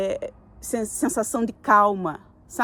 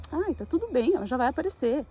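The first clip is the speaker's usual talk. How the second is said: calm intuition voice. Retold or imitated. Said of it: "Essa foi a minha voz da intuição".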